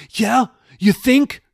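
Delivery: high, loud, agitated comeback; sarcastic. Acted. Jeffy answers Raoul's calming remark, sarcastic and high. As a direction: throw it back sarcastically.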